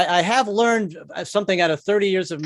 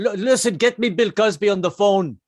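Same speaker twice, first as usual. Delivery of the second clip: attempted Russian accent slipping toward Indian; lightly put-on, muddled Russian accent; botched Russian accent; 3 semitones higher than usual. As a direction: try a Russian accent and miss. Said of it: "I'm doing an Indian accent".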